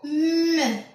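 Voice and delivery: "M" as a long hum, not the letter name; sustained "mmm" for the sound of "M"; isolated M sound. Shown as a demonstration. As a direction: hum "M" steadily on its own. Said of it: "Le son".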